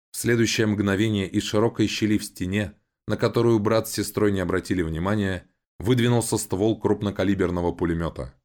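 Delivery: ordinary delivery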